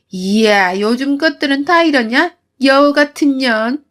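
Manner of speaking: 높은 목소리로 빈정대는 시어머니 흉내; 비웃듯 조롱하는 말투; 비아냥거림. Retold or imitated. 시어머니 비아냥 재연. (며느리를 비웃는 시어머니)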